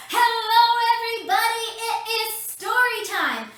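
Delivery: put-on high, loud singsong hello to the kids; excited greeting. Kids' presenter calling out to children at home, excited. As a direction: greet the children with big energy.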